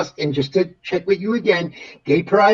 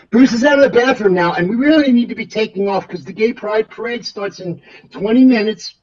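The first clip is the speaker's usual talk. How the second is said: excited repeat; 4 semitones higher, 3 dB louder than usual. Acted. Pilot excitedly repeats news.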